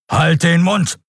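high, forceful shut-up; thundering. A narrator's reading. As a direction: cut her off hard. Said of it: "donnerte er".

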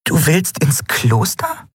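confused. A narrator's reading. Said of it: "fragte Nelen verwirrt".

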